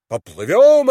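high, loud, eager reply; eager call back. A narrator's reading. Vaska agrees to sail on, calling loudly. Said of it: "ответил Васька".

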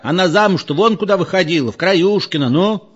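put-on high, insistent old-timer's questioning; animated interrupting. A narrator's reading. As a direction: butt in to argue a memory. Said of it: "Говорили, перебивая друг друга".

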